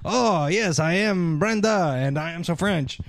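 badly faked French, played for laughs; fake French accent. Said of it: "when Brenda tries to be French".

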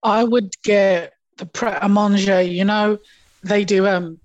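talking while chewing; words round a bite of food; mouth full. Real, not acted. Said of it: "I'm still eating my food".

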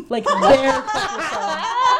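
"song" drawn out, rising; stress on song. Real, not acted. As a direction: really lean into "song". Stressing the irony.

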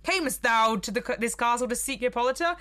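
hint of a spooky ghost; lightly voiced eerie spectre; skeleton voice. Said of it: "the figure's like".

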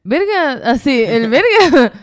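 drawn-out Maracaibo "Verga"; high, stretched Maracucho exclamation; borrowed Maracucho accent. Shown as a demonstration. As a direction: show off the picked-up Zulia accent. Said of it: "sí se me pega más como que".

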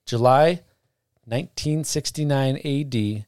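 flat robot reading voice. Shown as a demonstration. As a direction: read it like a robot, monotone. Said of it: "I'm gonna read it like a robot".

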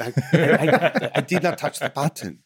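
high, loud, laughing protest; a hammed-up, giggly actor pleading innocence; laughing denial. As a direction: insist you didn't touch it, cracking up.

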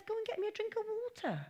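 high, soft, bossy order; rude demand. Retold or imitated. Elijah ordering the widow about, curtly. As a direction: snap the order at her. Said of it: "I'm sure he said it much nicer than that".

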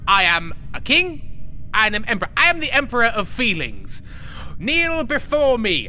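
booming arrogant alien overlord. Acted. Proclaims himself emperor of feelings.

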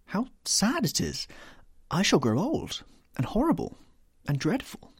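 high-pitched, anguished lament; rising distress at a sad thought; sorrowful lament. A narrator's reading. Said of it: "murmured Dorian Gray".

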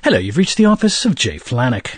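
a poor man's Monty Python British accent. Shown as a demonstration. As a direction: put on a bad British phone voice. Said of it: "Let's hear the voice".

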